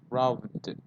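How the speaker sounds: robbed said as one syllable ending in d; model of robbed. Shown as a demonstration. Teacher shows how robbed sounds to students. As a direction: say robbed with a final d, no id. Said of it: "the pronunciation is".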